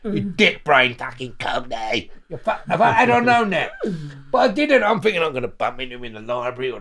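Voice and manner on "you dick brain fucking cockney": loud, high hard-man shout; tough shout. Pretend. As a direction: shout him down. Hypothetical tough retort.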